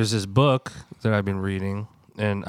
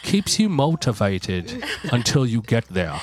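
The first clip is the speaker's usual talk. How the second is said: put-on street voice, pitched up; hood accent; 3 semitones higher than usual. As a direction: read it like a guy from the hood. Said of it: "this guy's from the hood".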